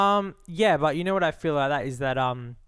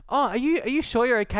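concerned masseur; 8 semitones higher than usual. Retold or imitated. Masseur asking about pain.

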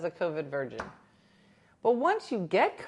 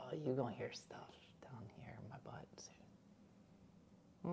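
slow, voiceless, much softer; slow whisper; 5 semitones lower, 18 dB quieter, slower than usual. Real, not acted. Teasing live chat about butt noises, in a slow whisper. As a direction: let it slip out as a slow naughty whisper.

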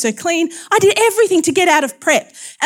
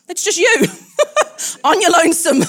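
higher, broken by giggles; laughing tease; 5 semitones higher than usual. Real, not acted. Preacher joking about church on your own, laughing. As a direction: tease them through a laugh.

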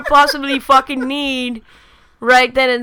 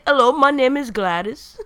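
lightly attempted, muddled English accent; botched English accent. Showing a co-host how to say the line, botched English accent. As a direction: have a clumsy go at an English accent. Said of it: "I don't know what accent that was".

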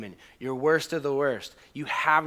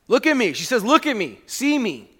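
pleading woman; 7 semitones higher, 10 dB louder than usual. Acted. Woman's plea voiced in sermon.

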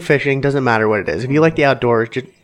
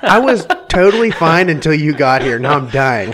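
laughing; 4 semitones higher, 3 dB louder than usual. Real, not acted. Laughing fit while choking.

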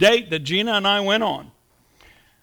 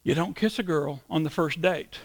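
mother's warning; 3 semitones lower, 6 dB quieter than usual. Retold or imitated. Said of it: "all I could hear out of her mouth".

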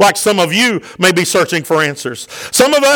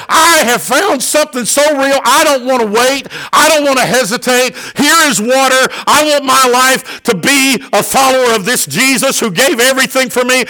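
raised, insistent voice of an eager convert; fired up; 3 semitones higher than usual. Acted. Preacher acts out the man wanting baptism, fired up. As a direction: act out an eager declaration without holding back. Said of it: "he is so fired up".

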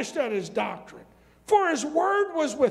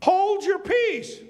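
higher, slow, firm command; slow authoritative rebuke; 6 semitones higher, 3 dB louder, slower than usual. Acted. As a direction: say it like silencing a demon. Voicing Jesus' rebuke.

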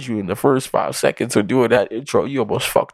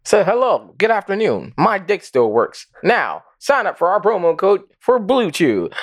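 mock ad read; 4 semitones higher than usual.

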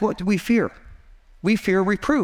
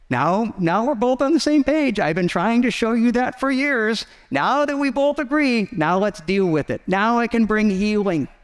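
lightly voiced God; 3 semitones higher than usual. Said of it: "God's sitting there saying".

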